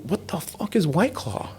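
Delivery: high, slow mock rapper disbelief; imitating a rapper, high and slow; the rapper's baffled reply. The rapper voiced in retold call.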